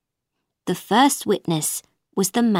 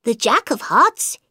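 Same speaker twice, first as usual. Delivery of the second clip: White Rabbit reciting; 10 semitones higher, 4 dB louder than usual. A narrator's reading. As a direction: proclaim it like a herald.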